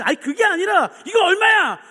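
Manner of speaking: high, loud, insistent customer; exasperated acted holler; retold shouting. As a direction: shout past the apology. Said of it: "하도 소리 지르니까".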